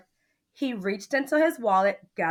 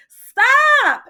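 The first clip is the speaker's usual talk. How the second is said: high, loud startled scream; screaming lady; 13 dB louder than usual. A narrator's reading. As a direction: scream it out in alarm. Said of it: "The lady screamed".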